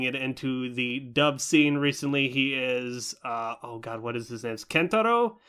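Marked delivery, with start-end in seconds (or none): none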